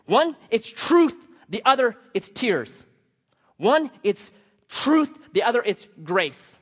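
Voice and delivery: preacher driving home the contrast; emphatic contrast. Acted. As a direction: hammer each half apart slowly. Preacher contrasting truth and grace.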